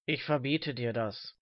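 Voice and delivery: put-on low, slow old man's voice; deep, measured reprimand; old man forbidding. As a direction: forbid it slowly, down in pitch. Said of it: "rief der alte Mann".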